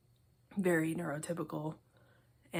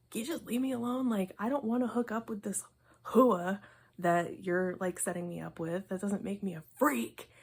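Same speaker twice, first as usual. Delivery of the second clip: exasperated protest; 3 semitones higher, 4 dB louder than usual. Acted. Voicing misunderstood character's protest.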